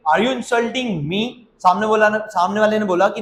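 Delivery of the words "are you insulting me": slow, careful question for learners; slow model question. Shown as a demonstration. Teacher modelling the question slowly. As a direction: stretch each word out. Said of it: "कैसे पूछेंगे?".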